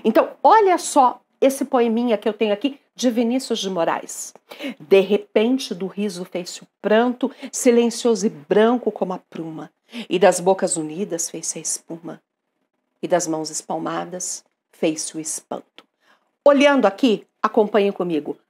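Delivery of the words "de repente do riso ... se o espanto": measured, understated verse reading; poem recitation. Acted. Reads poem aloud. (recitação de poema, contida)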